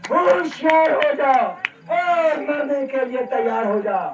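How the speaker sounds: menacing threat. Acted. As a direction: warn him he will die. Parashuram threatens Lakshman.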